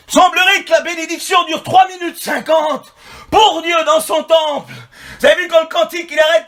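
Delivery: high, shouted pulpit indignation; full-force preaching. Real, not acted. Preacher rebuking a church built on songs, full-force preaching. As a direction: cry out the rebuke, sustained and insistent.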